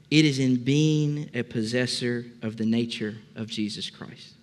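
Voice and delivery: slow, measured reading with weighty pauses; deliberate quote reading. Acted. Preacher reading a treasured quote to the congregation, slow and deliberate. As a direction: read it out phrase by phrase, letting each land.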